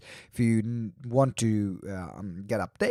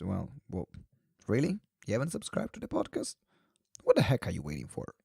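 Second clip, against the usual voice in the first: mock outrage; 3 semitones lower, 5 dB quieter, faster than usual. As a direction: scold the listener in mock outrage. Mock outrage at non-subscribers.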